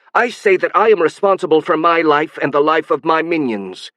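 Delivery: high, strange alien screech; shrill alien voice. Acted. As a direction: let the voice turn shrill and inhuman. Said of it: "her voice started becoming shriller and alien".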